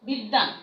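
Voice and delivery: বিদ্যান said as biddan, doubled দ, no b; বিদ্যান with a held double d; teacher models বিদ্যান as bid-dan; model word. Shown as a demonstration. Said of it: "অনুরূপভাবে দেখো".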